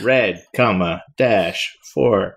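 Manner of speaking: slow, measured mock computer readout. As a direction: read out symbols like a machine, slowly. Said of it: "like, computer voice".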